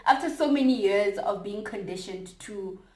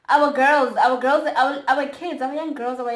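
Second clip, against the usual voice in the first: impassioned; 5 semitones higher, 9 dB louder than usual. Real, not acted. Speaking up for the kids, loud impassioned plea. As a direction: stress how much it matters.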